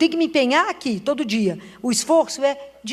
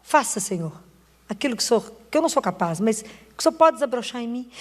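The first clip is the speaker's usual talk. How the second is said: soft prayer. Retold or imitated. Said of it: "e fala".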